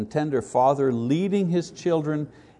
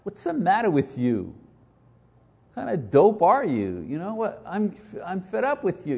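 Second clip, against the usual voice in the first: imagined scolding God; 5 semitones higher than usual. Retold or imitated. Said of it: "hearing God say to you".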